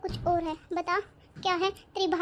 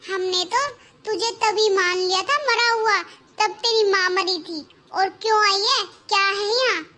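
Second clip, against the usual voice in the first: angry scolding; 5 dB louder than usual. Acted. Bhabhi scolding sister-in-law.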